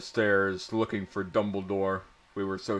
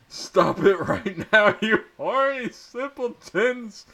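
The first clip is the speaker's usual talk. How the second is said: high, loud shrieking teacher; shouted; 12 semitones higher, 4 dB louder than usual. A narrator's reading. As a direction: screech it at the students like a furious professor. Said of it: "shouted Professor".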